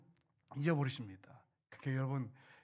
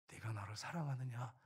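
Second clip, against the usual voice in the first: barely whispered, much softer; hushed voice of the Lord; 5 semitones lower, 10 dB quieter than usual. Acted. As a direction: breathe the question like a tender secret. Preacher voices the Lord's question. (속삭이듯 묻는 주님의 음성)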